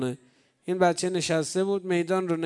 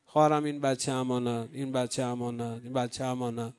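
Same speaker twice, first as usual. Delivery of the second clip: soft entrusting; 4 semitones lower, 5 dB quieter than usual. Acted. Imam entrusting children to sister.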